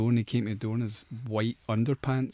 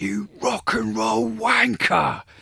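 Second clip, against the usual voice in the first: acted very high, ragged, shrill, raspy top-of-voice scream; 11 semitones higher, 6 dB louder than usual. Retelling what the neighbour downstairs screamed: imitating someone screaming. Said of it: "would scream at the top of his voice".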